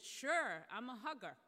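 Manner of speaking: a loud, happy sure; cheerful welcome. Retold or imitated. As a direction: throw the door open with delight. Welcoming nervous students with hug.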